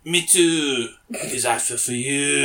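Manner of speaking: badly faked French accent; attempted French accent. Host retries pickup line for co-host, fake French accent. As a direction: put on a clumsy French accent. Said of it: "say it in a French accent".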